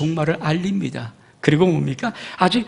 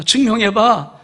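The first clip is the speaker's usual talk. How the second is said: louder falling 증명해봐; 증명해봐 hit loud and falling; loud dare; 4 semitones higher, 6 dB louder, slower than usual. Acted. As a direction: punch out the challenge. God challenging, loudly.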